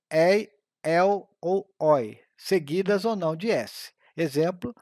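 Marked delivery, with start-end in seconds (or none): 0.1-2.2 ei, el ou oi said slowly with open vowels; open diphthongs. Shown as a demonstration. Teacher sounding out open diphthongs, slow and clear. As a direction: stretch ei, el ou oi so each opens wide. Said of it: "o ditongo aberto".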